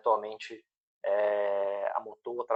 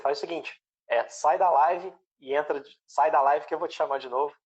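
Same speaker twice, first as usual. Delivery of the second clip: raised, higher voice calling across a dead line; to someone hard of hearing; 5 semitones higher, 6 dB louder than usual. Real, not acted. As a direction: call out loud so he can hear. Host calls out, guest's audio lost. (falando alto e mais agudo para quem não ouve)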